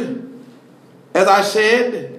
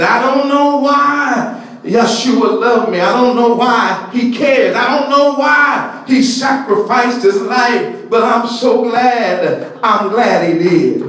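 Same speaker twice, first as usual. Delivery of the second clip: fervent preaching. Real, not acted. Preacher confessing his wonder to brothers and sisters, fervent. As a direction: pour it out to the congregation.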